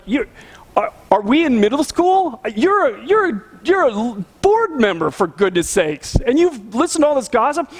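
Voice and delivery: incredulous, half-whispered disbelief at a board member; mocking how childish it is, breathless and stunned. Pastor retelling his stunned reply to the board member, incredulous.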